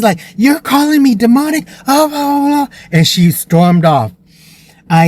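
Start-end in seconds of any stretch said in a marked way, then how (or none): 0.4-2.8 high-pitched imitation of an offended mother; mock outrage. Offended mother throws the word demonic back, mock outrage. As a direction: squawk it back as the insulted mom.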